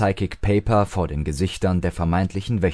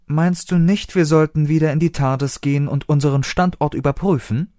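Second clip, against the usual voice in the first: besorgt; 7 semitones higher than usual. A narrator's reading. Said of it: "fragte River besorgt".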